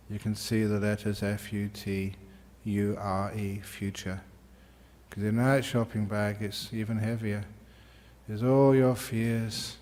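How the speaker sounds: calm, even voice with long pauses; guided meditation. Acted. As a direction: lead them unhurriedly through a visualisation.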